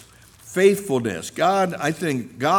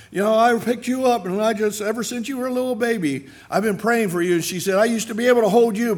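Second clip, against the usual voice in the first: put-on old lady; 9 semitones higher, 4 dB louder, faster than usual. Old lady recalls praying for him.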